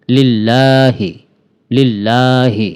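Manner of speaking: "লিল্লাহি" slow with a long a; drawn-out vowel. Shown as a demonstration. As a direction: stretch "লিল্লাহি" slowly. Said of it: "আমার সাথে সাথে বলুন".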